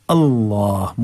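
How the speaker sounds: अल्लाह with a thick, dark L; अल्लाह with heavy L and long vowel. Shown as a demonstration. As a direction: draw out अल्लाह, full-mouthed. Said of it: "मोटा करके".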